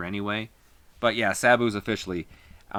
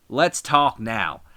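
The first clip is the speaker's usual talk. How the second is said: "let's talk now" dragged out slowly, stressing "lets"; slow it down, lean on "lets"; slow menace; 3 dB louder, much slower than usual. Acted. Wrestler promo in the ring.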